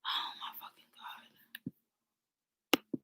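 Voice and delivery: breathy whispered oh my God under the breath; exasperated whisper. Real, not acted. Streamer fed up with a pushy guy, whispering to herself. Annoyed by a texter mid-stream.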